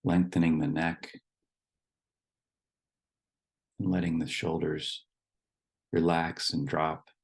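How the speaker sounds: calm instructions with long pauses between phrases; guided meditation. Real, not acted. Leading the group to settle in their seats, guided meditation. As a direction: guide them gently into the body, leaving long silences.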